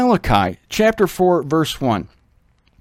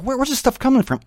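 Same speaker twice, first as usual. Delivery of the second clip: higher, bewildered cry of disbelief; baffled outburst; 9 semitones higher, faster than usual. Retold or imitated. Teacher reacting to a friend's new doctrine, bewildered. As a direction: throw up your hands at the strange teaching. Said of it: "I was like".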